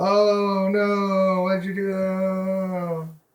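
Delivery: very high voice, very slow and dragged out. Retelling how the other speaker complains about being in the shot: imitating the other speaker. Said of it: "That's how I say it?".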